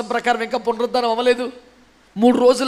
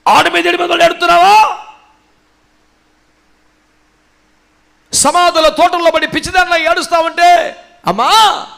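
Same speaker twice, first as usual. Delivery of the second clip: loud, high preaching challenge; impassioned, high-pitched exclamation; raised challenge; 8 semitones higher, 8 dB louder than usual. Acted. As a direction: call it out forcefully.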